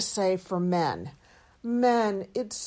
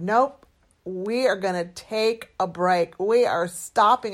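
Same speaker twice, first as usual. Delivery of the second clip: retold firm refusal; 4 dB louder than usual. Wife quotes husband calling off the day's work, firmly. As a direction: imitate his firm call, punching key words. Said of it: "He put his hand up and he said".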